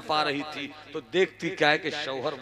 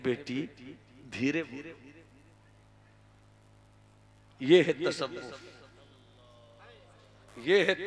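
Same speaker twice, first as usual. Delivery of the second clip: gentle hush; 6 dB quieter than usual. Acted. Saint gently hushes woman.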